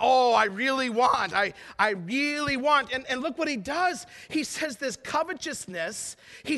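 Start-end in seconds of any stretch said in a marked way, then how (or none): 0.0-2.9 loud, drawn-out wanting; mock craving. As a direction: stretch it out with exaggerated longing. Acts out people craving purchases.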